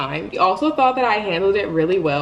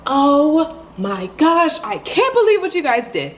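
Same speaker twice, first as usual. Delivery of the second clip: drawn-out, high outraged "oh my gosh"; furious disbelief; 7 semitones higher than usual. Retold or imitated. Storming in on her roommates, outraged disbelief. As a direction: storm in and let them have it. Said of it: "I'm, like, so pissed".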